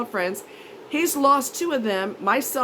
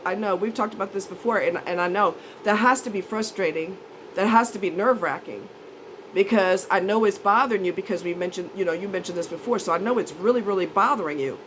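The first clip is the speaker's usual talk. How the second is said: understanding; 3 semitones lower than usual. Retold or imitated. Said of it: "That's what a normal person would say".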